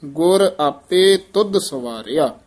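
"ਗੁਰ ਆਪੇ ਤੁਧ ਸਵਾਰਿਆ" said word by word; measured, separating each word of "ਗੁਰ ਆਪੇ ਤੁਧ"; careful phrasing. Shown as a demonstration. Teacher finishes the model verse, careful breaks between the words. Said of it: "ਇਹ ਵਿਸਰਾਮ ਧਿਆਨ ਨਾਲ ਲਾਉਣਾ ਹੈ".

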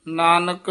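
a brief stop right after Nanak; short pause. Shown as a demonstration. Teacher showing a short stop: a brief halt after Nanak. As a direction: say Nanak and stop briefly before the next words. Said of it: "Nanak ਪਦ ਤੇ ਯਮਕ ਲਾ ਦੇਣੀ ਹੈ".

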